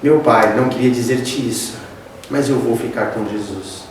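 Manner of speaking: voz baixa e grave, cabisbaixa; desânimo encenado. Retold or imitated. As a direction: responda ao pai baixinho, abatido. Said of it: "ele pegou aquele desânimo, baixou a cabeça". (filho desanimado, em tom grave e suave)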